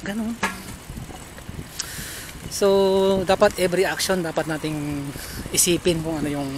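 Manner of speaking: muffled by cloth mask; speaking behind covered mouth; through a face mask. Real, not acted. Seen 3: Black cloth mask covers nose and mouth throughout labelled words.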